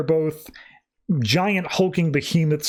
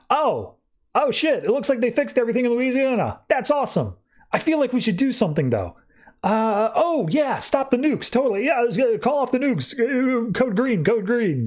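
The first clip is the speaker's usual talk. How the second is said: much higher, comic put-on voice; high flustered voice; 9 semitones higher than usual. Argus seeing Louisiana fixed and cancelling nukes, high and flustered. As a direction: play flustered officials suddenly remembering the emergency.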